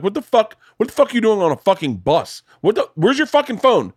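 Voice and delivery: mock yell at a daughter stuck on a bus; imitating a furious dad on the phone; retold cursing. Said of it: "And I cursed at her".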